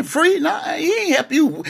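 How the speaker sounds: high squeal of laughter through the words; laughing so hard the voice jumps up. Real, not acted. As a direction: crack up while saying it. Pastor laughing mid-point.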